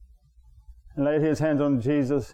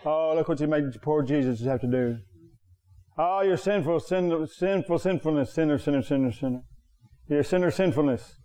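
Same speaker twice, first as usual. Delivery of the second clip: mock accusing preacher. Preacher imitates how the world hears believers, mock accusing. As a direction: heap on the blame in mock reproach. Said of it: "They hear us say".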